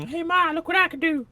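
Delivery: put-on very high childish brag; kid voice. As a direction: show off like a little kid. Childlike bragging voice.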